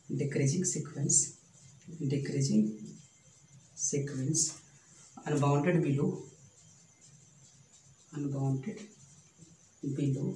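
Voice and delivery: slow and deliberate, word by word; slow dictation. Shown as a demonstration. Teacher dictating a theorem to students, slow and deliberate. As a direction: spell it out slowly for notes.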